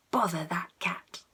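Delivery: soft whispered ending. A narrator's reading. Reading the final line to a child, soft whisper. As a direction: whisper the last line gently.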